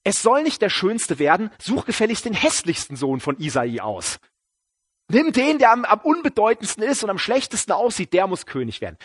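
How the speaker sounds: mock scolding, starting exasperated; hammed-up impatient reprimand; mock critical. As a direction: tell him off in an imagined rebuke. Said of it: "gar nicht kritisch gemeint, so nach dem Motto".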